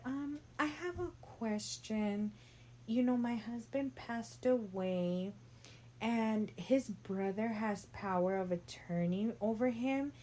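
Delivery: a widow politely asks the funeral home about ashes, mellow; mellow caller. Retold or imitated. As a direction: mimic her polite, mellow question, slowly. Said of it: "mellow, very cool, well-mannered".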